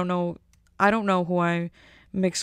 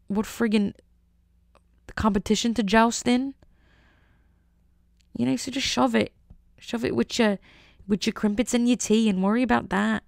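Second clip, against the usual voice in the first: hammed-up mishmash of British accents, slightly raised pitch; muddled British accents; 3 semitones higher than usual. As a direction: wander between mock British and Scottish accents. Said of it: "like, a multitude of accents. That was, like, a Scottish".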